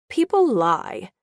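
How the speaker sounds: slow, level statement of fact; plain, unbothered inner voice; matter-of-fact. Acted. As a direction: say "People lie" like it's obvious. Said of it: "the inner Yvonne said matter-of-factly".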